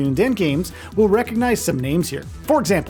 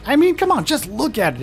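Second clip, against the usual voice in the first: excited; 7 semitones higher than usual. Real, not acted. Gushing over pixel art visuals.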